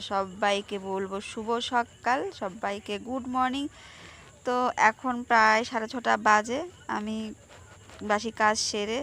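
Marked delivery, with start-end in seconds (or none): 0.1-3.6 slow, toothbrush in mouth; speaking around a toothbrush; while brushing teeth. Real, not acted. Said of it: "brush করতে করতে good morning জানাচ্ছি".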